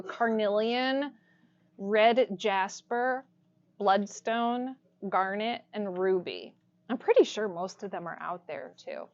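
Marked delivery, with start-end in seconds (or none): 0.0-6.6 slow, spaced-out list; slow repetition. Real, not acted. Teacher repeats crystals for note-takers, slowly and deliberately. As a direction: dictate each stone slowly. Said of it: "I'll repeat them again for you".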